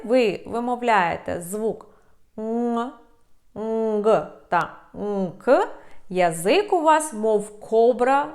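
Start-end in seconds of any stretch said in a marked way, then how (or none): 2.4-2.9 "н" as a bare nasal NG; nasal sound. Shown as a demonstration. Teacher isolating the sound for learners, nasal. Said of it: "носове звучання". 3.5-5.7 "нг" with a G release, "нк" with a K release; drawn-out, slow "нг та нк"; nasal sounds. Shown as a demonstration. Teacher contrasting the sounds, slow and nasal. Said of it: "носове звучання".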